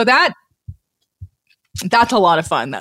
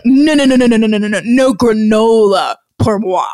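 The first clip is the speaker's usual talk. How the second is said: louder, rapid string of no's; emphatic refusal; 4 dB louder than usual. Retold or imitated. Mimicking the man refusing the offered granola, louder hammy no's. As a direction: refuse it hammily. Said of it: "this man is like".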